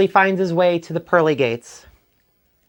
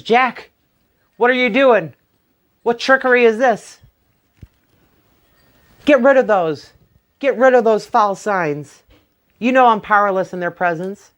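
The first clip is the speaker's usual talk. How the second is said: alarmed stranger; 5 semitones higher than usual. Acted. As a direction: demand it with rising panic. Stranger trapped by crucifixes.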